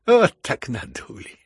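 slow, loud, high wail of a duped man; plaintive, drawn-out exclamation; plaintive cry. A narrator's reading. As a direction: cry out pitifully, dragging it. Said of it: "вскричал плачевным голосом Фердыщенко".

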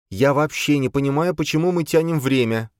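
put-on high, impatient young woman's voice; an exasperated girl pushing to leave; Boya, impatient. Boya impatient with the others, high and pushy. Boya's voice, annoyed.

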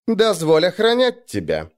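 high, wheedling request; ingratiating. A narrator's reading. Viking asking leave to guard his jarl, ingratiating. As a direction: coax him, pitched well up. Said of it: "вкратчиво отозвался Мороз".

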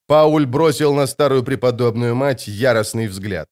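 plain reading voice

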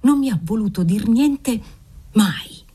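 high, pleading lament; rising anguish about the nun who won't help; anguished outburst. Acted. Father laments the saintly aunt.

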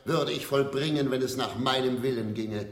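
stage villain monologue. Acted. Actor on stage delivering a villain's defiant speech. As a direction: play the unrepentant villain, proud of his crimes.

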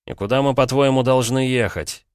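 high-pitched, doubting question, slowing at the end; distrustful. A narrator's reading. Son doubts his father's order to leave, distrustful. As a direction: question it with open disbelief, pitch up. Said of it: "недоверчиво заметил Петя".

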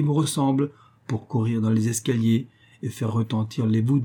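lightly voiced proud underworld king; a hint of a boastful king; king Pluto voice. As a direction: coax her with grand promises. Pluto persuading Proserpine.

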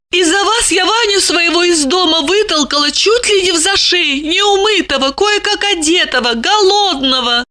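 high, plaintive woman's voice; light reproach. A narrator's reading. Lipochka softens and blames him about Vanya, lightly reproachful. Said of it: "продолжила лишь с лёгким укором".

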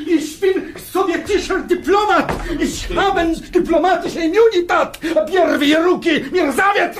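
shouting protest. Acted. Diplomat protests being seized.

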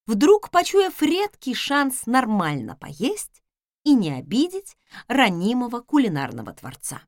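usual speaking voice

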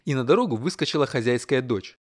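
plain reading voice

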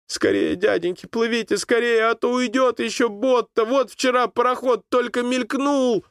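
high, rushed urging; hurrying urgently. A narrator's reading. Boy in the boat urging the rowers, high and hurried. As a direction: hurry them on anxiously. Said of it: "заторопился".

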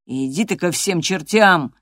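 slow, angry outburst; furious shout. Acted. Hareton in a fury tells Catherine to go to hell. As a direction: tell her to go to hell. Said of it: "крикнул он в ярости".

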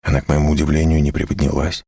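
plain reading voice

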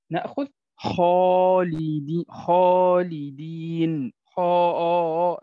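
خالدين with the alif drawn out slow and heavy. Shown as a demonstration. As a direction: stretch the آ of خالدين, full and velarised. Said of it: "هذه الألف المادية فخمت بسبب الخاء". (ألف مفخمة ممدودة في خالدين)

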